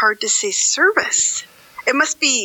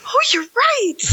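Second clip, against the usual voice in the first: whisper; 13 semitones higher than usual. Retold or imitated. Listener tells her cohost she was surprised, whispering. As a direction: breathe it like a secret discovery. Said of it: "I'm like".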